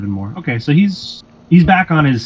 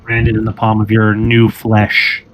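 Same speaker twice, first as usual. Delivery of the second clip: measured, drawn-out scene setting; game master narration; slower than usual. Acted. Game master describing a searing brand to a player, measured narration. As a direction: narrate it slowly and deliberately.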